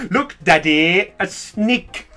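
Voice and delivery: lightly voiced child calling daddy; mock child. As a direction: tug at daddy's sleeve. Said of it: "making jokes on things".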